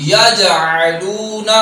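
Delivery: یجعلون stretched slowly; slow Quranic recitation. Shown as a demonstration. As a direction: recite یجعلون long and measured. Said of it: "recites word".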